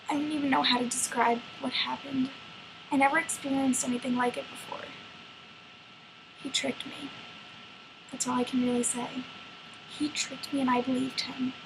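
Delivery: subdued, wounded dramatic monologue; Little Red. Acted. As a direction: confess the betrayal haltingly, with long pauses. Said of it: "it's in the perspective of Little Red".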